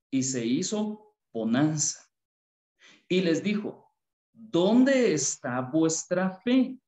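measured Bible reading aloud to the congregation; scripture reading. Acted. Preacher reading Luke to the congregation, measured scripture reading. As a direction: read the passage steadily, as from the pulpit.

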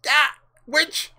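sudden high yelp of fright; startled cry. Acted. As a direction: jump at the voice.

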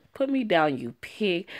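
mild acted protest; lightly voiced indignant scream; mock scream. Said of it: "I screamed at him".

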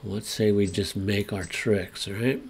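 muffled, finger on lips. Real, not acted. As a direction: talk through a finger on your mouth. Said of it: "I'm talking with my finger on my mouth".

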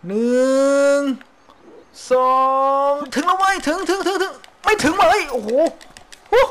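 thrilled then let down mid-swing; excited. Real, not acted. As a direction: hype up the rope swing jump. Counting a rope swing jump.

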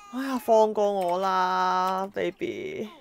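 half-crying, very slow plea; mock pleading sob. Begging the baby to stop, mock tearful and very slow. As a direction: whine it out like you're about to cry.

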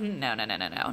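low, soft string of refusals; dropped-pitch, quiet denial; retold denial. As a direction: murmur it down low, acting out denial. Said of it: "like, into denial".

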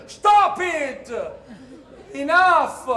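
high, loud scolding yell; half-laughing shout to stop the fight; shouting at animals. Acted. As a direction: break up the brawl with a yell.

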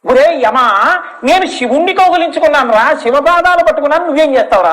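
defiant taunt. Acted. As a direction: dare him to try.

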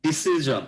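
ডিসিশন ending in -jon, not -shon; জ sound. Shown as a demonstration. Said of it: "জ উচ্চারণ হবে".

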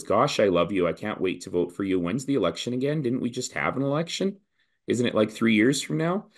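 mild imitation of an eager but confused voter; voicing confused voters. The leader quoting voters who don't know the election date, lightly mock-puzzled. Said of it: "the single most common thing that I have heard from people is".

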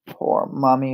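mild piglet whine; a touch of a whiny child; whining. Acted. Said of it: "whined Indy".

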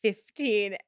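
slow, weighty imitation of the actor; lightly hammed-up solemn revelation; mock melodrama. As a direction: draw it out with mock gravity. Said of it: "It is super melodramatic".

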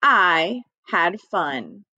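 slow model reading. Shown as a demonstration. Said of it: "I'm gonna read it. You're gonna repeat me".

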